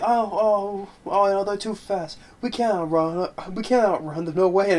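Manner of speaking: whiny scared imitation. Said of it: "it's like".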